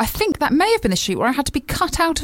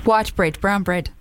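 put-on South African accent; 5 semitones lower, slower than usual. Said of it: "This is my South African accent".

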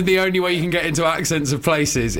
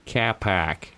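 put-on lower, softer echo of a Boston accent; mimicked Boston accent; 7 semitones lower, 5 dB quieter than usual. Cohost echoing his friend's phrase, mock Boston accent. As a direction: copy the Boston vowels lightly. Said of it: "That's Boston".

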